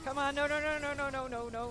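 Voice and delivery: loud rising panic of no's; man down shout. Real, not acted. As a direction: shout no as your teammate falls. Teammate dying in game.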